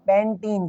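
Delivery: पैंटीन with "ee" in the second syllable; correct pronunciation. Shown as a demonstration. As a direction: say पैंटीन as "pen-teen", softly. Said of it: "पैंटेन नहीं".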